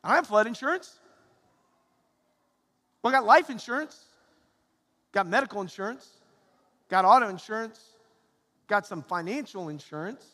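loud, smug bragging. Pretend. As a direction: brag about every policy. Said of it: "Or you may be like".

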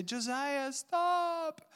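put-on high frightened child's plea; scared little girl. Little sister begging her brother to stop, high and scared. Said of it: "And she would say".

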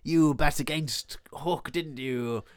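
slow, lightly voiced pirate captain; a hint of drawn-out accusation; Captain Hook. Hook accusing a pirate of betting, slow and accusing. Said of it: "This is how he speaks".

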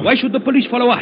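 nervous. Acted. Car chase, rising panic.

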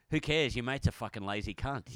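imitating an angry dismissive jab; angry insult. Co-host imitating his mate throwing insults, mock angry. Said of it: "if you were angry".

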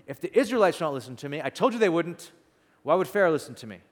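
mildly indignant, quickened protest; I-told-you-so complaint. Acted. Moses complaining to God after failing, mild I-told-you-so. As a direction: protest as if proven right all along. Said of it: "I told you so" moment with God".

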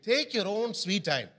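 slow, savoring each word; unhurried. Shown as a demonstration. Preacher modelling a slow answer to the church. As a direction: take your own sweet time saying it. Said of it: "Let's be silent".

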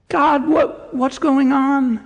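high, slow pleading prayer; pained cry of a believer; anguished lament. Acted. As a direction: ache through each word to God. Voiced lament prayer to God.

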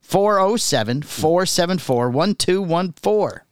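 slow, careful number read-out; slow and clear. Shown as a demonstration. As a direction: spell out each digit slowly. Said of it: "What's the number again?".

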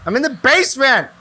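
put-on high whiny child calling mom; little kid voice. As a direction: yell for mom like a small kid. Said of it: "My little kid voice".

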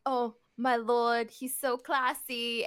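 slow, drawn-out posh admiration; lightly put-on posh servant praising his lord; posh accent. Servant praising his master, posh accent. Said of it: "your accent just went from, like, posh".

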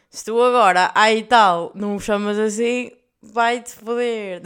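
put-on loud, defiant outburst at a jealous girlfriend; defiant rant. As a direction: brush her off with a snarl.

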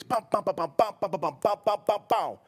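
short punchy bum, bum, bum, each beat hit hard; staccato cadence. Shown as a demonstration. Preacher tapping out the Hebrew rhythm for the congregation. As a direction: rattle off "bum" like drumbeats. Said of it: "the staccato cadence".

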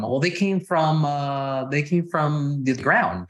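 drawn-out, stalling mock answer; playfully evasive. Messing with someone asking about their parents, playfully evasive. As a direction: stretch it out slowly, teasing the asker. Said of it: "you just keep messing with them".

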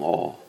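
"oh" held as a long rounded vowel. Shown as a demonstration. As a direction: draw out the "oh". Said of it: "a long".

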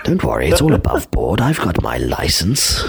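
put-on British accent. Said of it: "with a British accent now".

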